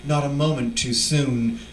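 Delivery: measured, solemn reading of a poem; poetry reading. Acted. Poet reading to an audience, solemn poem voice. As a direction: let each line settle, grave and slow. Reads his own poem aloud.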